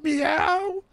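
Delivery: high playful meow like a cat. Pretend. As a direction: mew like a contented cat. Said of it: "I feel like a cat".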